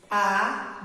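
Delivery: "Abacaxi" broken into a, ba, ca, xi; syllable by syllable. Shown as a demonstration. Teacher shows the A stands alone, each syllable said apart. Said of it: "então ele vai ficar sozinho".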